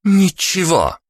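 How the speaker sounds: feigned innocence. A narrator's reading. Innocent reply.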